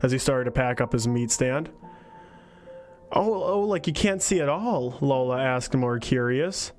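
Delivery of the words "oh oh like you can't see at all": put-on child voice. Child character asks.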